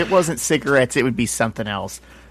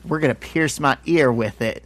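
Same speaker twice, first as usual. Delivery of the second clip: Imitating a singer. Retold or imitated. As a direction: imitate a singer's way of talking, unhurried. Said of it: "he talks like, like Michael Jackson".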